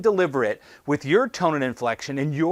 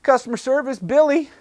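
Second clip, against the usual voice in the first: phone greeting; 9 semitones higher, 4 dB louder than usual. Retold or imitated. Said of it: "You don't hear people going".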